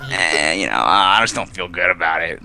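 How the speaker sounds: low, deflated mock grumble; reluctant winner. Imagined champion unhappy with the win, deflated grumbling.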